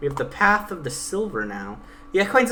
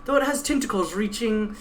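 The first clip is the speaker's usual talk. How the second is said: lightly voiced stern guide, pitched a bit higher; 8 semitones higher, 4 dB quieter than usual. Guide threatening the Pegasus at knifepoint, lightly voiced stern menace. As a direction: threaten coldly as the blade-holding guide.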